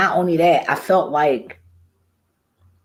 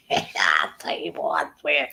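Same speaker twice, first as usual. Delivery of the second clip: whispered aside; 6 dB quieter than usual. Real, not acted. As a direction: breathe it as a private aside. Aside muttered to himself.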